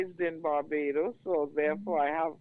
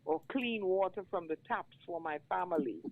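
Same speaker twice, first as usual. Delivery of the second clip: spoken-word poem, rising in force at the close; poem recitation. Acted. Reads his poem aloud.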